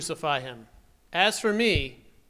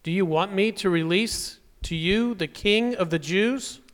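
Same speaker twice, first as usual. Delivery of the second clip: raised, louder public question; calling out; 5 semitones higher, 7 dB louder than usual. Acted. Pilate asking the crowd whom to release, calling out. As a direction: put the question loudly to a whole crowd.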